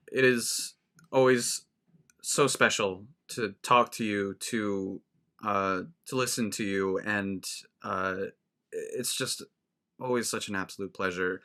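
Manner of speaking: sincere thanks. Real, not acted. Heartfelt thanks to guest at sign-off.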